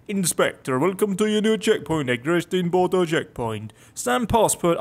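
mock Russian-accented briefing. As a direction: read orders like a Russian official. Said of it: "I'll drop the Russian accent".

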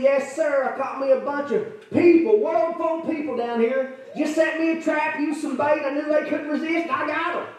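a preacher voicing a smug devil; boastful Satan.

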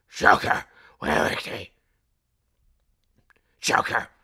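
shouting for someone, searching; calling out loudly. Acted. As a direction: call out into the dark. Calls out for the Joker.

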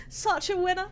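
self-mocking giggle; laughing. Real, not acted. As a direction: repeat "Such a winner." through a laugh.

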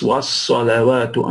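slow was salawatu, waw not mispronounced; corrected pronunciation. Shown as a demonstration. Teacher correcting how to say was salawatu, slow model pronunciation. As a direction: stretch was salawatu carefully with a flat waw. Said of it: "The waw is not wrong".

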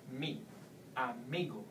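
"mi" alone, then "amigo" stressed on MI; second-last syllable stress. Shown as a demonstration. Teacher showing the vowel rule, penultimate stress. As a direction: lean on the middle of "amigo". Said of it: "go to the second last syllable".

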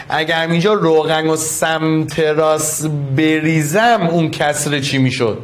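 slow and careful, giving students time to think; slow deliberate question. Shown as a demonstration. Teacher to the class, posing the oil question slowly. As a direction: draw the question out slowly, each word spaced.

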